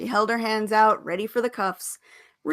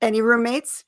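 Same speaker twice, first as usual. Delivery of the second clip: eager; 3 semitones higher, 5 dB louder than usual. Acted. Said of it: "fired off her next question eagerly".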